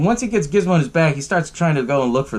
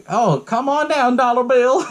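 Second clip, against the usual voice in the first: high, slowed calling to a pet; mock cat-lady calling; 10 semitones higher, slower than usual. Retelling the old lady calling her cats, high mock coaxing. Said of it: "all these cats are all named after currency".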